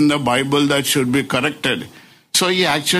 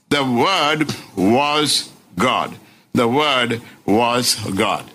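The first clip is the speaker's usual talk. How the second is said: "the Word was God" slow, each word set apart; clear emphasis; 3 semitones lower, slower than usual. Shown as a demonstration. Preacher stressing John's affirmed truth, clear emphasis. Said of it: "clear distinction or clear emphasis".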